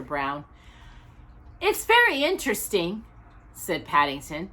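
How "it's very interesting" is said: determined. A narrator's reading. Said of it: "determined note in his voice".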